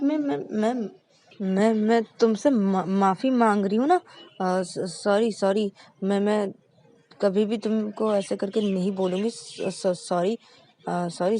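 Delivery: repeating words, stumbling apologies; nervous stammer. Acted. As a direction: stammer out a flustered sorry. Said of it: "कैसे हकला रहा था". (घबराकर हकलाते हुए माफ़ी)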